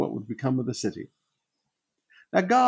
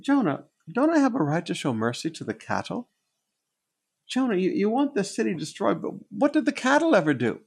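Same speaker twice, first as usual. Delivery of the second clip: voicing God pleading; 6 semitones higher than usual.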